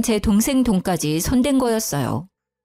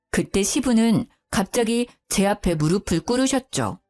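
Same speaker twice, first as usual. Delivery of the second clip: plain reading voice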